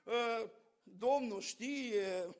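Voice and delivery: slow, evasive mock-wise hedge; lightly played philosopher shrugging it off. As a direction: drag it out like a would-be sage. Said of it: "o făceam pe filozoful".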